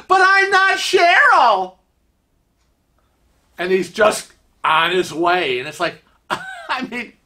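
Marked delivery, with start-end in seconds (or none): 0.1-1.8 very high, drawn-out protest; calling after him. Acted. Lady still protesting as he walks away, calling out. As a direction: call it out slowly after someone walking off. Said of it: "she's still going".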